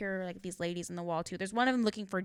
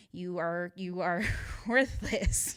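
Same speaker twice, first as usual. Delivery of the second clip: stern voice; much slower than usual. Retold or imitated. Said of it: "she's very much that stern".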